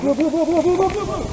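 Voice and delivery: excited callout. Real, not acted. Rapid callout in firefight.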